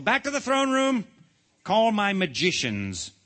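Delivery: high, loud royal orders; commanding shout. A narrator's reading. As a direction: call out across the court as king. King shouts orders to his court.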